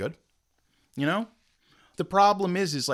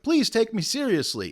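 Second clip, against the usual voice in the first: high-pitched mock plea; imitated high, pleading voice; begging; 8 semitones higher than usual. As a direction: plead as if desperate to be believed. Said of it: "like, begging".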